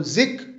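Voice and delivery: जिक said short, as the unstressed syllable; quick unstressed syllable. Shown as a demonstration. Teacher showing the unstressed syllable, said quickly. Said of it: "जिसको हम जल्दी से पढ़ रहे हैं".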